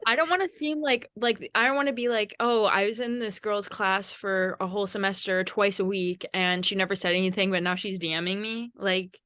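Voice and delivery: talking while chewing gum. Real, not acted. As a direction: smack gum between the words. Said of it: "smacking her gum in the mic".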